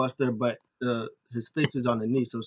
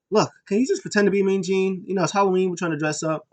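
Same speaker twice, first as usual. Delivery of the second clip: pleading; 6 semitones higher, 3 dB louder, faster than usual. Retold or imitated. Drake pleading with Kenzie.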